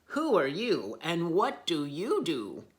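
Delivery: loud, rude demand; rude giraffes. Acted. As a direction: snap it at the stranger. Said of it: "not very nicely".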